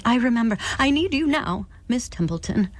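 high, urgent widow's plea; desperate plea. Acted. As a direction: beg with rising desperation.

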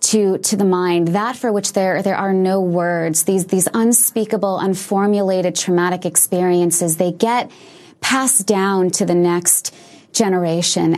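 slow, deliberate explanation; slowly. Real, not acted. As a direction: take it slowly, word by word. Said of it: "put this slowly".

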